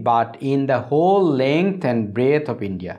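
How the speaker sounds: very slow, phrase by phrase; broken up reading. Shown as a demonstration. Teacher rereading a long sentence for students, very slowly in pieces. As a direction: break the sentence into slow chunks. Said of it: "আমি আবার ভেঙে ভেঙে পড়ছি".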